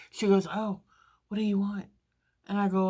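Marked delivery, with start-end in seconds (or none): 0.5-1.9 hyper waitress. Retold or imitated. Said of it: "she's all hyper and stuff".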